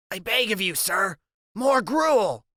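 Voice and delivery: slow, drawn-out theatrical plea; milk the plea, stretching each word; dramatic begging. Acted. Freak repeats begging line, dramatic.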